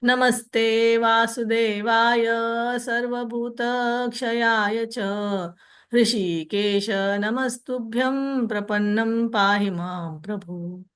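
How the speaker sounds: measured devotional recitation; Sanskrit verse recitation. Acted. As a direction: recite it like a temple prayer.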